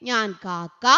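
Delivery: normal talking voice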